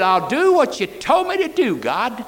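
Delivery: high, loud vow; Jonah's promise. Retold or imitated. Preacher voicing Jonah promising obedience, loud high vow. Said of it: "He said".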